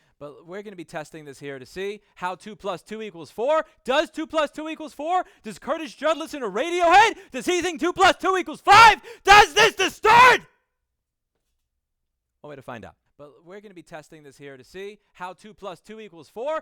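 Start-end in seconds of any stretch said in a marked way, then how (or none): 3.8-10.4 very high, shrill, very loud shouts. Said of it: "I'm gonna yell into it".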